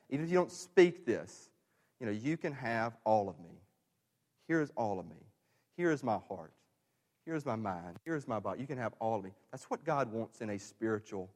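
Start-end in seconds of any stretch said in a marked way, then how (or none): 2.1-9.3 soft, lowered, gently offered; tender devotion. Acted. Preacher voicing words between intimate partners, tender and soft. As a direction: hand yourself over quietly and sincerely.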